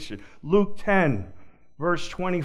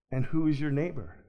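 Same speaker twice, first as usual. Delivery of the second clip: gentle asking; faster than usual. Shown as a demonstration. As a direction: ask it like a friend who already loves him. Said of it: "It's a little better".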